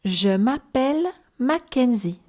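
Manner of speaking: Je m'appelle Mackenzie said slowly, each syllable clear. Shown as a demonstration. Teacher models the phrase for learners to repeat, slow and clear. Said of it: "slowly and one sentence at a time".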